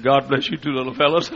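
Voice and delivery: lightly voiced old lady, tender and doting; a hint of a sweet old woman blessing the feet; lightly voiced old woman blessing two little feet; blind lady's blessing. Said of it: "she patted those two feet and said".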